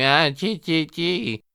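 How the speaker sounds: very drawn-out, slow, high, nasal, nerdy stammer. Complaining that a character's voice changed, the speaker mimics Melvin's original voice: Melvin's high nasal stammer. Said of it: "dweeby, stammering, high-pitched, nasally".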